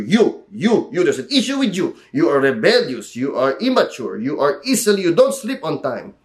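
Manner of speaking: a hint of a nagging parent, listing faults; mock parent scolding. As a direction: lightly scold like an older parent. Mimics parent scolding child.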